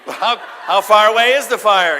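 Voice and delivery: loud, slow mock question; mock deliberating. Process thinker asking about the fire, loud mock deliberation. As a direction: ponder absurdly.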